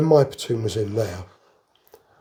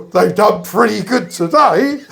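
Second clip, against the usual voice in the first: Canadian general's quip; 9 semitones higher, 6 dB louder than usual. Retold or imitated. Sat up and said.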